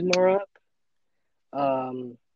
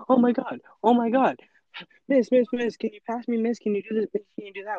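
panicked freak-out; 5 semitones higher than usual. Retold or imitated. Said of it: "I'm freaking out".

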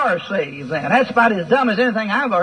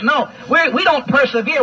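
usual speaking voice

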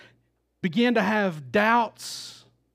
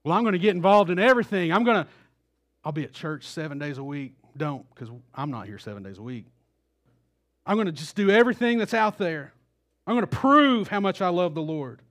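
eager overachiever; 5 dB louder, faster than usual. Retold or imitated. Eager believer trying to prove himself.

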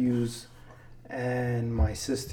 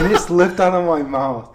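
higher, louder, real laugh in the voice; 5 semitones higher, 9 dB louder than usual. Real, not acted. Admitting to friend he swore at little cousin, laughing as he talks. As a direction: confess it while cracking up. Laughing as he confesses his slip.

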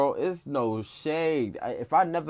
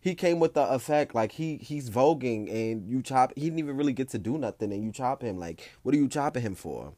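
indignant crowd; 2 semitones higher than usual. Retold or imitated. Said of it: "The whole crowd behind me is like".

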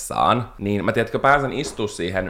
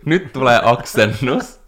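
retold yell; 4 semitones higher, 5 dB louder, slower than usual. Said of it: "ja mä huusin".

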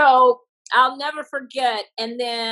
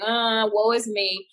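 mopey self-pity; slower than usual. Retold or imitated. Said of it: "I was in my feelings".

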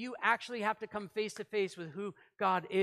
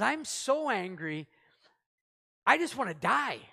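a mock tantrum from Jonah; sulky anger; 2 semitones higher, 5 dB louder than usual. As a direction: drag out so, then burst out. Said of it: "And he says".

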